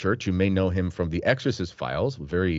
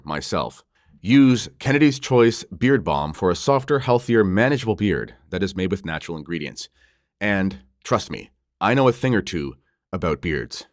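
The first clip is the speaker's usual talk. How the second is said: louder, upbeat ad-read voice; sponsor ad read; 4 dB louder than usual. Acted. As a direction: sell the product like a radio spot.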